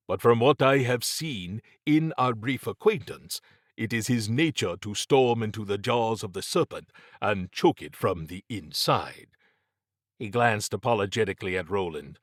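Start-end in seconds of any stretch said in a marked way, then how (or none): 0.1-9.4 measured, formal character voice; lightly voiced Mabati, tactful. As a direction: lightly play a diplomatic observer.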